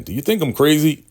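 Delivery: high, loud, rushed question; mock crazed leader. Shogun off his meds questioning River, mock crazed. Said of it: "he's not on his meds".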